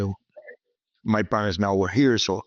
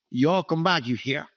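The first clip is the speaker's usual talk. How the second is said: put-on southern accent; 3 semitones higher than usual. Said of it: "a southern accent".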